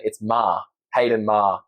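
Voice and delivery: Australian Maher, said "Ma" with no R; Australian accent. Shown as a demonstration. Guest showing the host his name, in an Australian accent. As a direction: drop the final R the Australian way. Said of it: "in an Australian accent".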